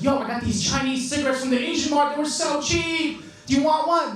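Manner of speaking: lightly voiced roommate. Roommate offering cheap Chinese cigarettes, lightly imitated eager bro. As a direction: lightly act an eager housemate. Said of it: "I had this roommate, he comes up to me".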